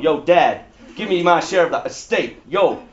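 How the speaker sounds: lightly voiced homeboy; a hint of street-kid swagger, only half acted. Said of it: "He was probably a homeboy".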